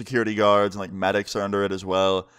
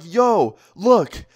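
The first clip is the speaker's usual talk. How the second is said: high, louder attention grab; raised-pitch, punchy alert; urgent call-out; 9 semitones higher, 6 dB louder than usual. Retold or imitated. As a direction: call a friend to look, urgently. Calling friend to look in shock.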